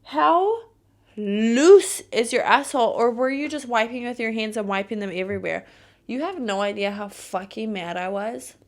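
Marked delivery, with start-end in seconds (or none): 0.0-5.7 disgusted shout at the messy coworker; outraged yell. Retold or imitated. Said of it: "I'm like".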